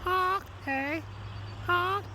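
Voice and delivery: very high honk with a Canadian eh; goofy high goose call. Shown as a demonstration. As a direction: play the goose for the joke. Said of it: "They go".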